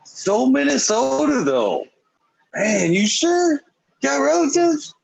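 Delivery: very high, put-on questioning voice; hammed-up high, skeptical prodding; mock doubtful teasing. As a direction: needle them in a silly high pitch. Acts out needling the Canadians.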